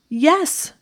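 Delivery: sharp loud high bark. A narrator's reading. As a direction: bark the answer. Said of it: "she barked".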